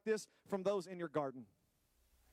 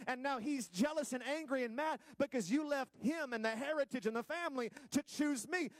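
raised pitch, driving sermon delivery; impassioned preaching; 5 semitones higher than usual. Real, not acted. Preacher warning the congregation about earthly fathers, impassioned. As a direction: press the warning home with fervor.

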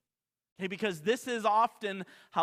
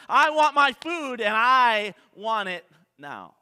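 loud, higher demand, slowing at the end; yelling at waitress; 3 semitones higher, 10 dB louder, slower than usual. Retold or imitated. Customer yelling at the slow waitress, loud and angry. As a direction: demand your food like a brat. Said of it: "yell and scream at the waitress".

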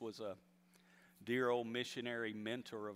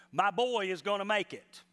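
louder and higher, ringing declaration; proclaiming with faith; 9 semitones higher, 8 dB louder than usual. Retold or imitated. Preacher declaring the mother's confession to the church, loud and higher. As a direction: proclaim it like an unshakable promise. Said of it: "she held fast her confession".

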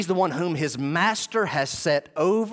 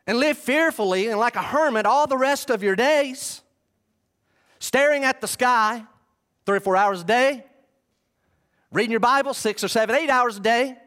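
mock Bible reading; 4 semitones higher than usual. Preacher pretending to read absurd orders to congregation, mock-solemn proclamation. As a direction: declaim it as if reading out scripture. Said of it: "Oh, wait, I misread that".

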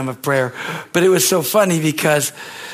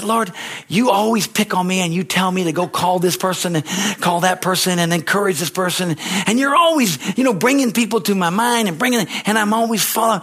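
higher, self-pitying plea to the Lord; mock-whining prayer, a little higher; whiny complaint to God; 5 semitones higher than usual. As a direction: sulk at God, feeling sorry for yourself.

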